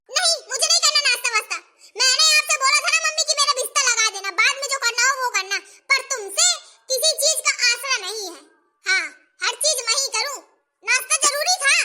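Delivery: acted daughter's annoyed complaint; a touch of acted anger; mildly angry. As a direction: complain crossly to your mother, without shouting. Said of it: "गुस्सा कर रही हो".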